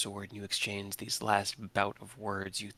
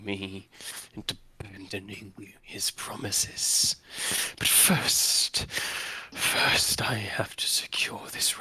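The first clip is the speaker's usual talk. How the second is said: dark lord. Acted. Villain addresses the party.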